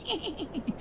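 quiet, suppressed imitation laugh; muffled inward chuckle. Storyteller imitates the scholar laughing inside, muffled chuckle. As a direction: mimic someone laughing to himself, very softly. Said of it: "צוחק בפנים".

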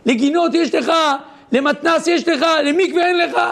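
high-pitched imitated wail of protest; mock crying, pitch leaping up at the start; retold tearful outcry. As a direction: plead as if bursting into tears. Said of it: "הרב טולדנו התחיל לבכות".

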